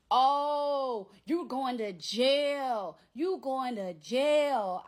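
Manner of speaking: loud, slow, taunting jail threat; imitating the ex's loud slow threat; mock threat. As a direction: drag it out to scare her. Ex threatening her, retold.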